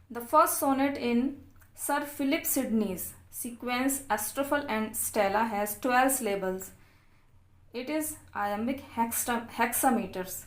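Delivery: reading notes aloud very slowly, word by word; slow dictation reading. Acted. Teacher dictating English notes to students, very slow and deliberate.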